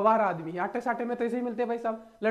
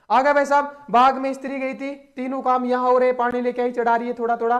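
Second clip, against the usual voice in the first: excited storytelling; 6 dB louder than usual. Acted. Teacher narrating story dramatically.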